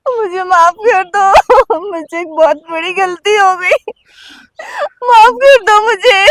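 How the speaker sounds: slow, crying plea for forgiveness; tearful plea. Acted. Wife begging husband's forgiveness through tears. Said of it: "wife begs forgiveness crying".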